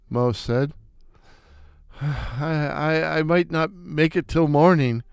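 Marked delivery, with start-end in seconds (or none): 2.0-5.0 choked out. Acted. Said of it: "I managed to choke out".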